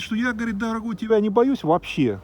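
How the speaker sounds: ordinary delivery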